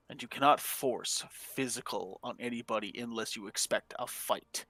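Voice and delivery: quiet scolding. Acted. Character scolding spirit quietly.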